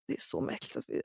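unvoiced whisper to herself; whispered aside. Mother awkward at the midwife, whispering it to herself. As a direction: breathe it like a private thought.

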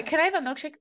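high, loud entitled-guest voice; mock demanding guest. Friend retells a TikTok, as a guest ordering a milkshake in a high mock voice. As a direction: ask for too much, sweetly.

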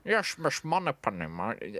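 mock lisping Scottish spy; lightly mocked lisping Scot; Sean Connery. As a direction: slur every s into sh, as a stock bad impression. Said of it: "impression of what people do".

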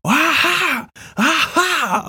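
cackle-taunt like a villain spinning a noisemaker; high mocking villain chant; gleeful taunting. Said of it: "and he's going".

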